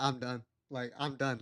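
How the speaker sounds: retold resignation, barely voiced; quietly giving up. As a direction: drop the volume as if checked out. Retelling having given up on date.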